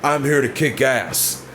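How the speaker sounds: slow, deliberate tough-guy promo; a hint of a menacing heel promo; tough promo line. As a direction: lay it down like a badass wrestler. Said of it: "If Roman Reigns would have said".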